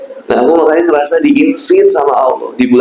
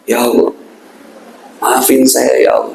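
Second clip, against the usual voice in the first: a sincere, sorry plea; demonstrating contrite prayer; remorseful prayer; 3 semitones lower than usual. Shown as a demonstration. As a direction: ask forgiveness with real regret. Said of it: "Pakai bahasa Jawa, bahasa Indonesia".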